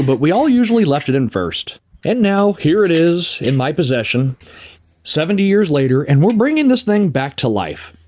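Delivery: scripted storyteller narration with lively pitch swings; measured voiceover with pauses for effect; documentary narration. Acted. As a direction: narrate it like a wry, deliberate mini-documentary. Scripted narration over the bike restoration.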